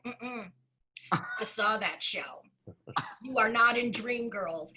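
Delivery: a hint of a cop not buying it; skeptical officer. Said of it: "one of the officers was black and he was like".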